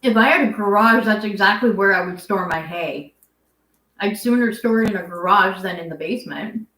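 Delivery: talking while chewing; mouth full. Real, not acted. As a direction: speak around a mouthful of food. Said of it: "I'm done chewing".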